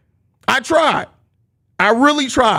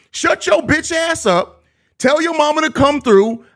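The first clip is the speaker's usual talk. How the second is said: angry; 5 semitones higher than usual. Real, not acted. Roasting a chat troll.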